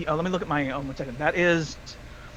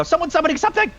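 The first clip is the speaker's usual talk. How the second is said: calling out; 12 semitones higher, 4 dB louder, faster than usual. Acted. Calling out warning to party.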